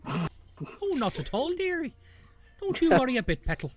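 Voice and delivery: put-on a doting old bush soothing the nervous druid; kindly old bush. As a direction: motherly plant voice, high and sweet on dearie.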